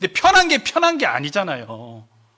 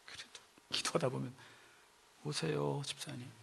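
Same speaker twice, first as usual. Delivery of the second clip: soft, low, yielding murmur; acted tender invitation; gentle relenting; 8 semitones lower, 19 dB quieter than usual. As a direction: give in quietly after the outburst. Relenting, gently inviting a deacon back.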